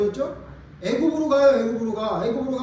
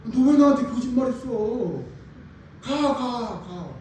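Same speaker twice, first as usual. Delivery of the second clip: annoyed Pharaoh; 3 dB louder, slower than usual. Retold or imitated. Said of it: "바로가".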